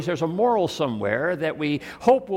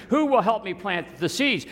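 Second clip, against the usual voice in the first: higher-pitched storybook question; storybook hen asking; 7 semitones higher than usual. A narrator's reading. Little red hen asks her friends, high storybook voice. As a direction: lift it high, appealing to friends.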